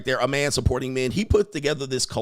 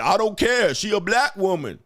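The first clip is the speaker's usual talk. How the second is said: mock quote; 6 semitones higher than usual. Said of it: "you came out and you panned".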